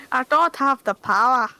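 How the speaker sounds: put-on Scottish accent. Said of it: "I just did a Scottish accent".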